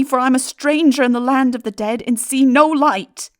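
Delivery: loud, high desperate plea into the dark; calling aloud. Acted. Man in the vault calls aloud to the dead, pleading. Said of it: "I called aloud".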